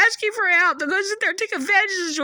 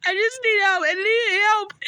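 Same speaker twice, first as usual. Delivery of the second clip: crying. Real, not acted. Pleading for help, crying marked.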